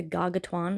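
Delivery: "Gargantuan" said as "garga-twan"; mispronounced. Real, not acted. Reader guessing at a hard word in the prologue, mispronounced. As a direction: fumble "Gargantuan" into "garga-twan", losing a syllable. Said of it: "that's not how you pronounce".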